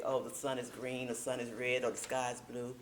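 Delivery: flat even pitch, no ups and downs; monotone. Shown as a demonstration. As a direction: drone it all on one note. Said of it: "talk like this in same tone all the time".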